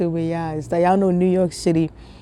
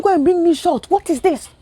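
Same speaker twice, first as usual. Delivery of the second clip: puzzled mom; 11 semitones higher, 4 dB louder than usual. Retold or imitated. Retelling mom's confusion.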